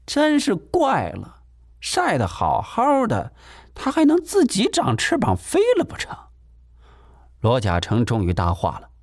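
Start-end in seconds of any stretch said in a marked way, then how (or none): 0.1-6.2 provocative. Acted. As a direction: drag it out to provoke him. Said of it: "挑衅道".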